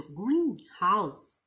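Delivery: "greenhouse" with GREEN stressed. Shown as a demonstration. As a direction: hit "green" first in "greenhouse". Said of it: "sílaba tônica no início".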